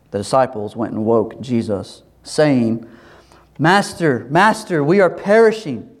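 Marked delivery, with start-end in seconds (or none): 3.6-5.9 raised, urgent reading of a cry for help; lightly acted yell, pitch lifting; mildly raised cry. Disciples waking Jesus in the storm, mildly raised cry. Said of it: "yelling at him to wake up".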